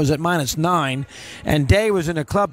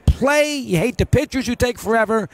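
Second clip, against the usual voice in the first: exasperated shout; 5 semitones higher than usual. Real, not acted. Host venting about slow play.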